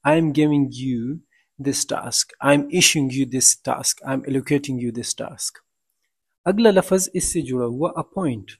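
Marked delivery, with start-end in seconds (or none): 0.1-5.6 slow, spelled-out example sentences; slow demo sentences. Shown as a demonstration. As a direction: read each example slowly for the class. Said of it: "give out".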